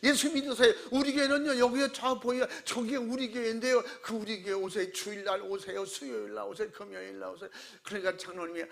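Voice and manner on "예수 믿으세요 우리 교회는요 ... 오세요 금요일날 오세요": grab passersby and call out; loud street preaching. Retold or imitated. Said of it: "지나가는 사람 붙잡으면".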